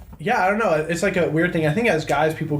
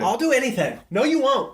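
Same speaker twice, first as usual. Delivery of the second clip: mocking high voice; 8 semitones higher than usual. Mocking indecisive girls.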